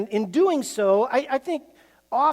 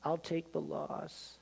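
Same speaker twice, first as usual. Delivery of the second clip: teddy bear voice; 3 semitones lower, 11 dB quieter than usual. Retold or imitated. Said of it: "says the teddy bear".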